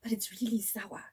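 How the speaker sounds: whispered, half to herself; whispered aside. Real, not acted. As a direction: whisper it as a confession. Aside while rating.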